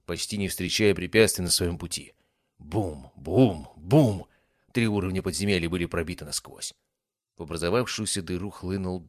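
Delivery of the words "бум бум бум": booming. A narrator's reading. Narrator booming impacts.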